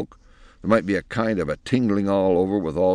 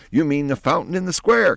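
surprised question; 10 semitones higher, 3 dB louder than usual. Acted. Fairy godmother asks.

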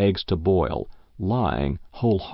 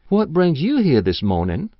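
put-on old farm wife; 7 semitones higher, 4 dB louder than usual. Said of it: "exclaimed old Matilda herself".

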